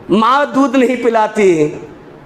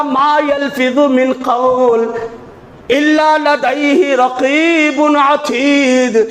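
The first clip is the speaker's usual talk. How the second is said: very slow, drawn-out Quranic recitation; much slower than usual. Acted. Preacher recites the verse to the congregation, very slow. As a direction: chant each word slowly.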